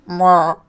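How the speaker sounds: short imitated animal call; imitated animal noise. Shown as a demonstration. Player answering what noise that animal makes, imitated call. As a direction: make a brief animal noise, "mrr". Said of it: "What noise does that animal make?".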